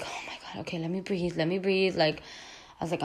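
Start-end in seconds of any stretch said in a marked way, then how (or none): 0.0-2.0 breathless whisper, then a hushed "let me breathe"; whispered self-calming. Retold or imitated. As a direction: talk yourself down in a hush. Calming herself in panic.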